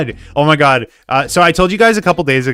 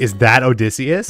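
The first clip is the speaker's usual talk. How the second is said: plain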